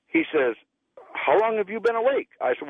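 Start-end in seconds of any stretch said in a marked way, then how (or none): 1.1-2.3 astonished question. Retold or imitated. Astonished doctor asks patient.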